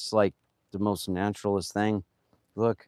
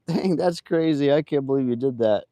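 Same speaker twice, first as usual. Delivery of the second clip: mildly raised, quoted astonishment; retold amazement; 4 semitones higher, 3 dB louder than usual. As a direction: imitate an impressed coworker.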